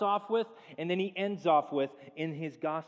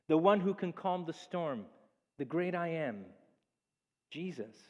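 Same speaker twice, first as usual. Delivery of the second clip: commanding reassurance. Retold or imitated. Jesus calms the frightened disciples, solemn and grand. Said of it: "he doesn't just say".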